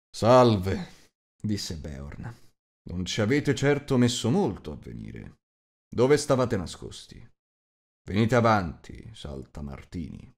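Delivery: resigned big host. Acted. Host greets arriving dwarves.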